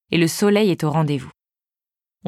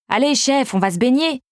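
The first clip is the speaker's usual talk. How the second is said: eager shout; 6 semitones higher than usual. Acted. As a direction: call out, impatient to swim. Teens eager to swim.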